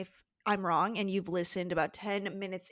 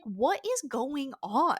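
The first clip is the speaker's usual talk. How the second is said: slow, high, baffled question; mock bewilderment; 4 semitones higher, slower than usual. Percy baffled by how Tyson is treated, slow mock bewilderment. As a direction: drag it out in acted disbelief.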